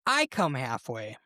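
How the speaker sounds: drawn-out mock holler, easing off at the end; mock shout back. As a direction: imitate a sergeant bargaining across the trenches. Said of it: "a British sergeant shouts back".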